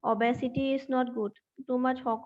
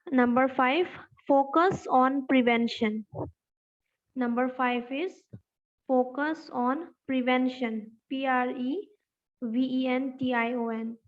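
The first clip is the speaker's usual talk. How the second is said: dictation. Real, not acted. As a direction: dictate it word by word with pauses. Dictates notes to class.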